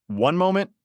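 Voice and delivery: high, loud outraged yell. A narrator's reading. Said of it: "I yelled again".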